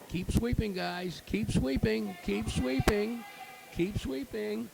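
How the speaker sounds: excited call to the sweepers; urging on. Real, not acted. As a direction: cheer the sweepers on down the sheet.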